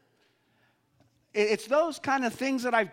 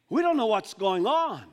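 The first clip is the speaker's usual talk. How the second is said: bewildered disciples; 5 semitones higher, 4 dB louder than usual. Acted. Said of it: "I can almost hear this now".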